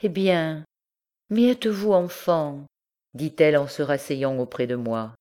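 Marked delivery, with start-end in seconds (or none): 0.0-2.7 teasing lightly. Acted. Marguerite gently teasing the young man who wept, higher and lighter. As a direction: tease him like a grown-up teasing a child. Marguerite teases the tearful visitor.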